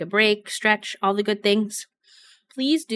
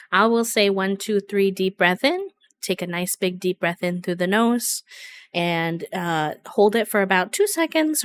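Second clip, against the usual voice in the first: guided breathing. Acted.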